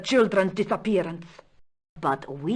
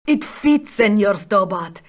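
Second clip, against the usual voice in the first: thrilled discovery; 3 semitones higher, 4 dB louder than usual. Acted. Countess to Stobart as pieces fit, thrilled. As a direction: burst out with delighted amazement.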